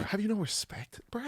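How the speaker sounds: hushed, mock-scandalized whisper; whispered reproach. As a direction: whisper it as a soft scolding. Hushed mock scolding of friend.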